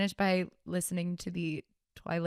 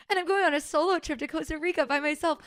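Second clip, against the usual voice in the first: higher mock-dramatic rom-com girl; rom-com heroine; 9 semitones higher than usual. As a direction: gasp it like a movie heroine. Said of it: "like, in a rom-com".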